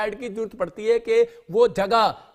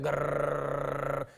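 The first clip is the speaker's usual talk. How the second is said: a long, slow, low, softer rolling helicopter growl; helicopter whirr; 6 semitones lower, 5 dB quieter, much slower than usual. Retold or imitated. Preacher imitating a circling helicopter, rolled whirr. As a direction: roll the r like a rotor going round.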